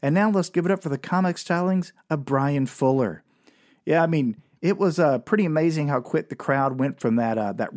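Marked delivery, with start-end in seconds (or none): 0.0-3.2 club emcee. Retold or imitated. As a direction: hype the next act like an MC. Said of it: "this M C would walk up and goes".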